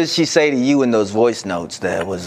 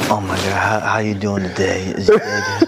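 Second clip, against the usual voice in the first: phone sex voice; 3 semitones lower than usual. Retold or imitated. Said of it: "his phone sex voice".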